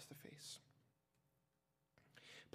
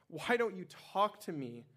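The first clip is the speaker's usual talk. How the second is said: higher, louder and slowed, pressing for an answer; demanding; 6 semitones higher, 5 dB louder than usual. A narrator's reading. Pilate to the silent Jesus, a loud, high demand. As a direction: force the question out, commanding. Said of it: "Pilate demanded".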